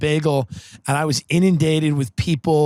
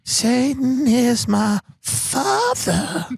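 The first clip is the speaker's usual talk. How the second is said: high, slow, eerie whispery-toned prophecy; spooky pop singer; 6 semitones higher, much slower than usual. Acted. Pop star telling the talk show host about Satan, slow and eerie. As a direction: creep out the host with a dark slow voice.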